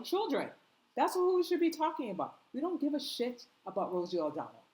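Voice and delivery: furious demand; angry outburst. Real, not acted. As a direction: hammer home what matters.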